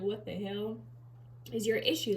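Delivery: voicing the dog's judging look; sassy dog voice. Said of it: "she's looking at me like".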